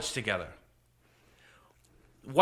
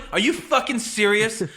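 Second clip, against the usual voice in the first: retold incredulous outburst, raised pitch; going off on him; 4 semitones higher than usual. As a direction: challenge him in mock outrage. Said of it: "I go off on him".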